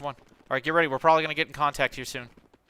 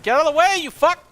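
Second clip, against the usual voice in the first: high furious yell; angry shout; 9 dB louder than usual. Real, not acted. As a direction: scream at the blocker. Teammate blocking the way.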